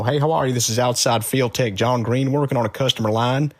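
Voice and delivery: put-on light Southern Texan accent as a phone tech. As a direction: greet the caller like a Texas field tech. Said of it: "somebody from, uh, down south".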